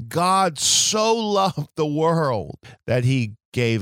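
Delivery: "so" stretched slow and high; slow down and press "so loved the world"; "so" punched as an adverb of degree; stress on so. Shown as a demonstration. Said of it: "It adds emphasis to the verb love".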